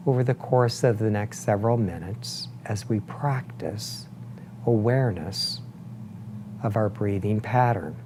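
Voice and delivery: unhurried meditation guide, long pauses between phrases; guided meditation. Acted. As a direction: guide them gently into breath awareness, leaving space after each phrase. Leads a breathing meditation.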